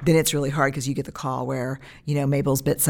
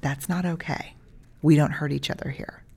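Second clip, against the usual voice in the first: put-on calm, firm words to a toddler; calm parent voice. Shown as a demonstration. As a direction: set the boundary gently but firmly. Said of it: "like you're hitting me like a two-year-old".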